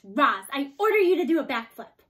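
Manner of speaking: loud, gleeful order; bossy command. A narrator's reading. Girl ordering the robot to flip, loud and gleeful. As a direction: boss the robot around, loud and pleased.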